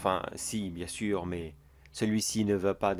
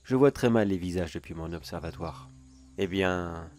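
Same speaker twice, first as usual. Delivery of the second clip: a sly neighbor savoring his secret, a touch louder; theatrical sinister storyteller voice; gloating villain monologue; 4 dB louder than usual. Acted. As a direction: tease the listener like a smug creep.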